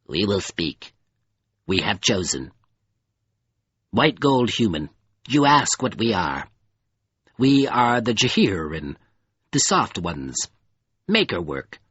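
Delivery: measured, solemn creature voice with pauses; crawler creature, steadied. Acted.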